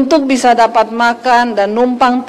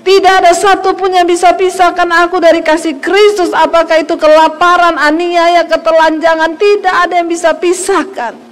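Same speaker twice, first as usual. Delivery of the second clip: Paul's declaration; 5 semitones higher than usual. Retold or imitated. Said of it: "Rasul Paulus berkata".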